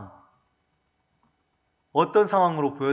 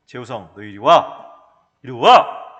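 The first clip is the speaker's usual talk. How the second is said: put-on louder stern call to a child; calling son sternly; 5 semitones lower, 9 dB louder, slower than usual. Father calling his misbehaving son into the room, loud and stern. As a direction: summon the boy, angry parent. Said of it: "해가지고 데리고 방에 들어갔어".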